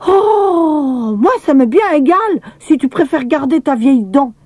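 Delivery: put-on shrugging little boy; a hint of an offhand boy. A narrator's reading. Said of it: "lança Émile".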